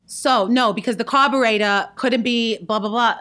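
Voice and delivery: a hint of a film-role impression, punchy; Marissa Tomei. Guest does an impression on request, lightly voiced and emphatic. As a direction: lightly imitate an emphatic movie monologue. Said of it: "Marissa Tomei".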